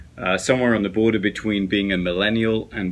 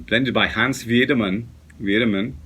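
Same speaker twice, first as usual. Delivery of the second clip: German accent; 3 semitones higher, 4 dB louder than usual. Shown as a demonstration. Vlogger reading out a tobacco blender's name, German accent. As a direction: put on your best German accent. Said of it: "that's my best German accent".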